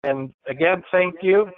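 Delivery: echoing like in a big hall; reverb. Real, not acted. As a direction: voice bouncing off the room. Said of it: "Sorry for the reverb".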